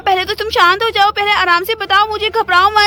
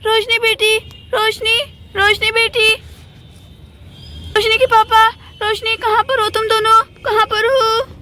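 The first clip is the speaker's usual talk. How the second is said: desperate calling. Acted. Hurt Mamta calling her daughter and husband for help. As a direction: call out for help before passing out.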